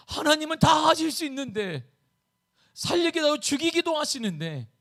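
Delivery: high-pitched, insistent pleading; impassioned protest. Acted. Preacher as Habakkuk arguing God could do anything, impassioned protest. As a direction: argue with God as a desperate prophet. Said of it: "하박국은 항변함을 외칩니다".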